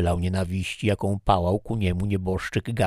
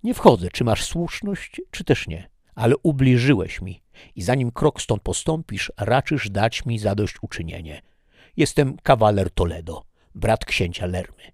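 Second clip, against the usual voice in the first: louder, higher, proud challenge; offended Toledo; 3 semitones higher, 4 dB louder than usual. Acted. Toledo challenging the stranger to a duel, proudly. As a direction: demand satisfaction like a nobleman.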